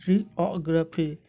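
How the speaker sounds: जियोग्राफी slowly blended as jee-aw-gruh-fee; careful, slow model of जियोग्राफी; sounds joined up. Shown as a demonstration. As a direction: join the pieces of जियोग्राफी, slowly. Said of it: "आप इस तरीके से भी बोल सकते हैं".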